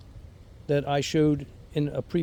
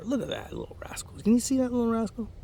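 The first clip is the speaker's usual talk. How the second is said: playful teasing; 9 semitones higher, 5 dB quieter, faster than usual. Real, not acted. Teasing a stink bug on fig.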